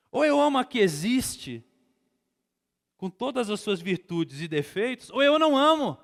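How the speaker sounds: high, forceful sermon delivery; full-force preaching. Real, not acted. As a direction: drive each point home to the congregation.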